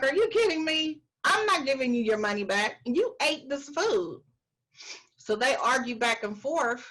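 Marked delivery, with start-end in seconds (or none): 0.0-4.2 indignant boss. Retold or imitated. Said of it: "He's like".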